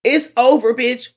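sassy finality. Retold or imitated. Hitchhiker's voice, retold.

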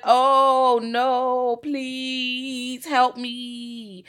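loud, high mock pleading; mock horror. Reacting to a gory scene, loud mock horror. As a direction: gasp it like watching gore. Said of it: "I'm like".

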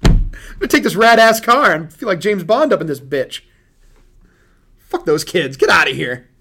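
loud laughing rant. Real, not acted. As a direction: laugh through the words. Gleeful mock selfish rant.

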